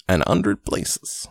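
slow mock Cockney with the h of hundred dropped; a weak try at Cockney, said slowly; slow amateur Cockney, no h in hundred; bad Cockney accent. Shown as a demonstration. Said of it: "I cannot do a Cockney accent".

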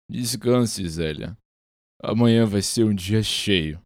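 slow, stern final verdict; pronouncing a sentence. Acted. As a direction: hand down the sentence slowly. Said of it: "Giovanni sentenciou outra vez".

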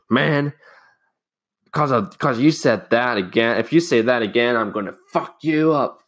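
mildly heated mock threat; pissed-off threat. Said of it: "And he was pissed".

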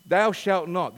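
hammed-up biblical boom; Cecil B. DeMille. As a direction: proclaim it like a movie prophet. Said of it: "That's my best Cecil B. DeMille".

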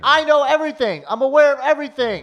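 mock outburst.

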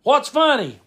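high, sharp imitated demand; Brad impression, dead serious. Brad demands why the kid is laughing, indignant impression. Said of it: "say something dead serious".

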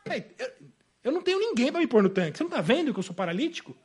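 fast, affronted comeback after a false start; rude retort. Acted. Preacher as a ruder paralytic answering Jesus, affronted. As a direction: stammer briefly, then snap back at the stranger. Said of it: "eu teria sido mais mal educado".

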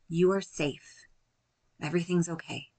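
soothing self-reassurance, slowed right down; gentle self-talk. Shown as a demonstration. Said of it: "we're gonna speak to ourselves gently".

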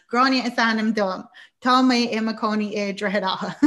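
loud, stiff Irish-oral recitation; mock schoolroom recital; oral exam recitation. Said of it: "your French and Irish oral here".

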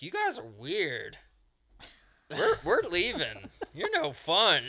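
high, loud imitation of put-off kids; laughing mock kid complaint; disgusted kids. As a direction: whine it loudly through a laugh. Voicing kids, laughing while telling.

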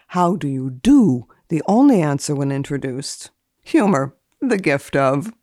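dry formal reading of entries; deadpan list reading, each entry set apart; index read. Acted. Etiquette columnist reading old index entries, deadpan.

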